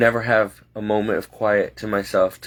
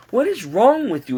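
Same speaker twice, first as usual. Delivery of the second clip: exasperated yell; 12 semitones higher than usual. Retold or imitated. To the overdressed boss, a high exasperated cry. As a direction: cry out in disbelief at him.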